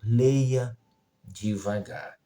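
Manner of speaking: measured, parting reminder; slow instruction. Retold or imitated. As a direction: draw it out, then let "devagar" sink. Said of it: "É só ler devagar".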